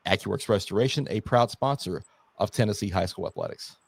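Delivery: steady, polished sponsor read. Real, not acted. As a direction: read it like a local radio sponsor spot. Reads a sponsor's ad.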